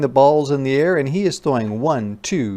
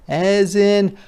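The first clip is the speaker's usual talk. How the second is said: breathy h demo; 7 semitones higher, much slower than usual. Shown as a demonstration. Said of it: "H says".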